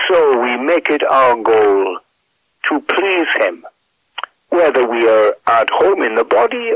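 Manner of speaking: measured, reverent Bible reading; scripture reading. Acted.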